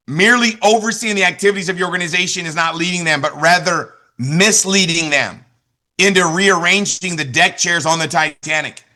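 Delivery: slow, weighty reading of the quote; slow emphatic repeat. Shown as a demonstration. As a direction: drive the line home slowly a second time. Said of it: "You'll love this one".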